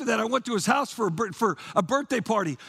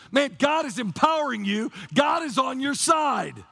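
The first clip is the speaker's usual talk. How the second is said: preaching shout; 2 semitones higher than usual. Real, not acted. Pastor proclaims climax of sermon.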